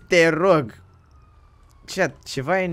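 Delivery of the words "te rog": imitating his please. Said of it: "Mi-a zis".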